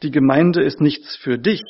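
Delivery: dich stressed with a rise; emphasis moved to dich. Shown as a demonstration. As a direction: lean on dich at the end. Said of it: "die Betonung dann eben auch richtig lauten müsste".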